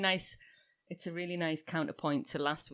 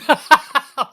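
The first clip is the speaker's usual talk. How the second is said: paint in her eye; 7 semitones higher, 18 dB louder than usual. Real, not acted. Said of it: "she's still rubbing her eye".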